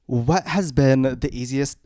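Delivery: lightly voiced pageant host posing a question; measured, pausing mock-formal question. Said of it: "a Miss Universe question".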